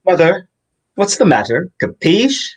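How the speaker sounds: put-on Russian accent. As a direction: growl it out like a Russian gangster. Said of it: "we've got our Russian accents".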